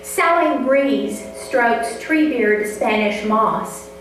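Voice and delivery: measured, unhurried poetry reading; poem reading. Acted. Reads her poem aloud.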